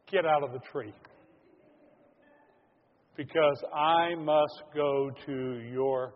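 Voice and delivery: loud, slow call up into a tree; Jesus calling up to Zacchaeus, loud and slow; commanding call. Acted. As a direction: call him down firmly and slowly.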